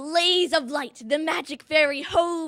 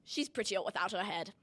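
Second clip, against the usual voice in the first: smug; 4 semitones lower, 9 dB quieter than usual. A narrator's reading. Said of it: "He smiled and said".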